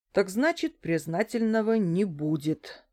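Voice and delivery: usual speaking voice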